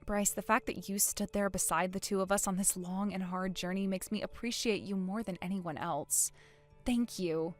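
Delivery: soft, tender thanks; hushed, sincere appreciation; heartfelt gratitude. Acted. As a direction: speak softly and gratefully. Tearful thanks to a friend.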